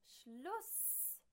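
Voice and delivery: high, loud furious scream. A narrator's reading. Neighbour screams at the machine, furious. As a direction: scream it with all your breath. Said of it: "schreit Herr Lollefjord so laut".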